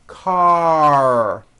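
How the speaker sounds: "Car" closed with a loud, strong R; strong final R. Shown as a demonstration. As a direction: finish "Car" with a firm rounded R. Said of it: "The R needs to be very strong".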